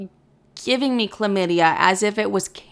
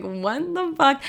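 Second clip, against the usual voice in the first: high, slow, baffled guy voice; boyfriend, totally lost, high and slow; stunned boyfriend; 6 semitones higher, slower than usual. Retold or imitated. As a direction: play the confused boyfriend, drawn out. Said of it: "This poor guy is like".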